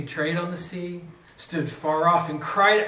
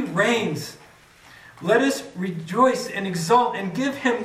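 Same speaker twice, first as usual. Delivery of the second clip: dramatic scripture reading. Acted. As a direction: proclaim the lament, raised and stirring. Scripture reading, proclaiming style.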